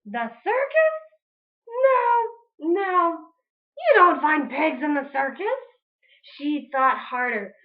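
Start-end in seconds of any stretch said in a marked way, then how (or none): 0.1-5.5 higher scoffing no; witch voice. Acted. Witch Grinch rejecting her own plan, higher. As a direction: brush the idea aside, squeaky.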